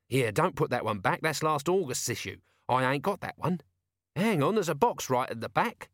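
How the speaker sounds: lightly voiced eager corporal; a hint of a keen scrounger; Nobby.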